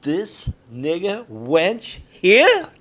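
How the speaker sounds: very slow, drawn-out line, here rising; committed take. Acted. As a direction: stretch every word with menace. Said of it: "action, Andy".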